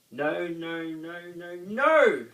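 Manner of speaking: high, loud rising shout; group shouting in dismay. A narrator's reading. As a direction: yell no over and over. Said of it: "shouted the group".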